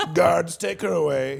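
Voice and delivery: slow, drawn-out, rough and creaky voice. Showing a joke-free impression of Trump: Trump impression. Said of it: "That's pretty good".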